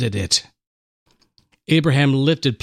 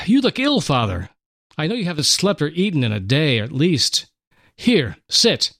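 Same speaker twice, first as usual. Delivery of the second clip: higher, lightly voiced young son; concerned boy tending his father; young Isaac; 4 semitones higher than usual. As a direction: son urging his tired father to rest and eat.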